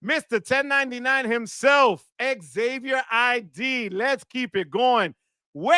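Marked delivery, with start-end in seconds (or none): 5.6-5.7 celebratory holler. Real, not acted. Streamer hailing a super chat donor, celebratory holler. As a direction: belt it out, holding the first syllable.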